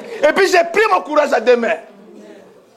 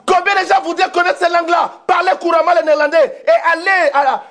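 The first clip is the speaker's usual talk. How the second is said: high-pitched, insistent exhortation; fervent preaching; 4 semitones higher than usual. Real, not acted. Preacher urging believers to evangelise in Dutch, fervent exhortation. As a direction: press the congregation with rousing repeated questions.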